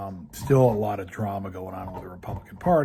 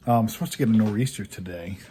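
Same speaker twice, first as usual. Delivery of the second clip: chewing while talking; talking through a mouthful; mouth full; 6 dB louder, faster than usual. Real, not acted. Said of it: "Oops, I'm chewing on a bone".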